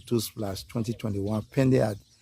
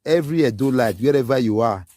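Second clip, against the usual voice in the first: rallying call; 2 semitones higher, 5 dB louder than usual. Real, not acted. Rallying call to Edo people.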